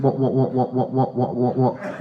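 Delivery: stuck repeating "what" at an even pitch; stammered disbelief. Acted. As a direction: sputter like a stunned dad. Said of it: "Exactly like that".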